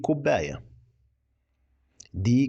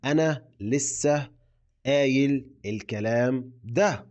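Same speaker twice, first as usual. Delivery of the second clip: 1 slow model sentence; slower than usual. Shown as a demonstration. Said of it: "خليني أقول لك جملة".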